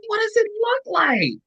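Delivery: very high, strained alarm; panicked question. Retold or imitated. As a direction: ask it in a high frightened squeak. Panicking self quoted.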